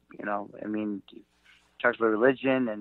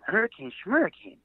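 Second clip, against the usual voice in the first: incredulous echo; 7 semitones higher than usual. Retold or imitated. Echoing the old man in disbelief.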